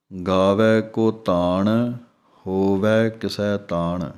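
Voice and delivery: slow, ਗਾਵੈ and ਹੋਵੈ end in a long ai; ਗਾਵੈ, ਹੋਵੈ, ਕਿਸੈ with the ai held long; careful recitation demo. Shown as a demonstration. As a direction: recite it slowly so each ai is heard. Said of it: "ਇਸੇ ਤਰ੍ਹਾਂ ਵੈ ਦੀ ਆਵਾਜ਼".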